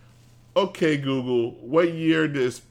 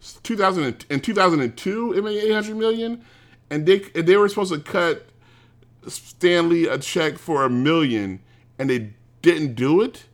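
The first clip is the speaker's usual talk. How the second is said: indignant; 4 semitones higher than usual. Real, not acted. Outrage at Sony.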